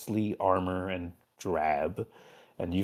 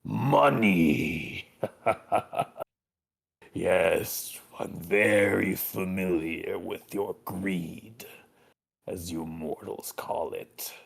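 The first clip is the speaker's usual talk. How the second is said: amused, mocking demon lord; laughing demon; slower than usual. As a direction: laugh the word out, then sneer. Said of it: "As he laughs in response".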